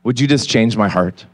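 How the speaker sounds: a hushed plea to God; retold prayer. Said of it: "slowly the words started to come".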